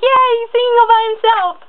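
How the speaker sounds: high excited fangirl squeal. Retold or imitated. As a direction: squeal it like a thrilled fan. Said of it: "'cause I'm like".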